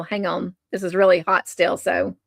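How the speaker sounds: talking between sips of hot tea; words around a careful slurp of tea; sipping hot tea. Real, not acted. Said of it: "Sorry to have slurped that".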